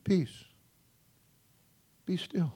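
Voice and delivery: soft, hushed word of command; calming command. Acted. Jesus stilling the wind and waves, calm and quiet. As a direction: hush the storm with quiet authority.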